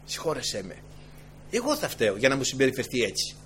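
soft, low, humble plea; a touch of weeping repentance; tearful prayer. Acted. The wronged saint begs the Lord, softly and humbly. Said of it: "έκλαιγε και έλεγε".

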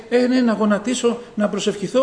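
mock listless believer dragging into prayer; half-hearted, reluctant mumbled resolve; miserable, grudging. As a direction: act out a touch of weary reluctance. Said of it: "με μια μίζερη κατάσταση".

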